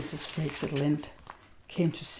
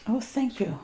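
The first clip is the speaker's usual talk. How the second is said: happily; 7 semitones higher, 6 dB louder than usual. Acted. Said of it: "Anne said happily".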